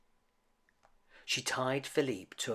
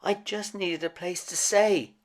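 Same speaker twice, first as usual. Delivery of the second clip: timid; 7 semitones higher, 5 dB louder than usual. A narrator's reading. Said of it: "said Maurice timidly".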